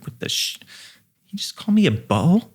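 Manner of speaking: high, quick mock indignation; shocked disbelief. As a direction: voice leaps high and fast in mock outrage. Outraged reaction to being called butthole.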